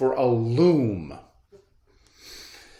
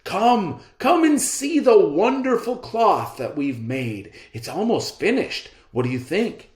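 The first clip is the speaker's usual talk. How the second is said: smooth swindler; 8 semitones higher than usual. Acted. Swindlers flatter servant.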